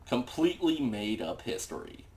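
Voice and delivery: "Completely" stressed in a flat, dry fall; deadpan sarcasm. Real, not acted. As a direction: drag out "Completely made up history" with dry scorn. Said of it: "My favorite subject".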